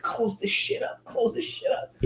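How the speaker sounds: high, breathy whisper in a rush; retold frantic whisper, high and hushed; urgent whisper. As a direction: hiss it urgently as you close the trades. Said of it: "I was like".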